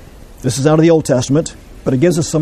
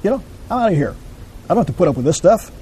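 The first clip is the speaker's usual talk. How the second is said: mock defiant spouse; 2 semitones higher than usual. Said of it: "So we said".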